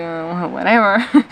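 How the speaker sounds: low, slow "whatever"; retold dismissal. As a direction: imitate giving up on explaining. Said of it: "I was like".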